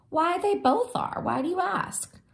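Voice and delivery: mother answering her daughter; reassuring mom. Acted.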